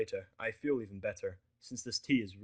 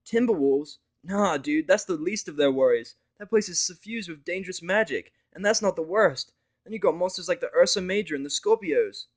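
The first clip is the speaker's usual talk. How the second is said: higher, louder know-it-all mare; Vinyl correcting; 8 semitones higher, 11 dB louder than usual. Acted. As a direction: set him straight about the forest. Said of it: "Vinyl corrects me".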